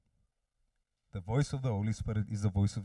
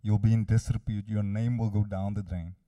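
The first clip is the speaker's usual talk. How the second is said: forceful, raised accusing voice; loud accuser; 6 dB louder than usual. Acted. Preacher voices the accuser shaming the listener, loud and accusing. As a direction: pronounce doom as the amplified accuser. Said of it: "gives that voice a megaphone".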